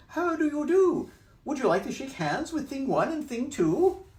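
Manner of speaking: put-on very high, loud English-accented Things; prim English greeting, squeaky. Thing One and Thing Two greeting the children in an English accent. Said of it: "why they have English accents".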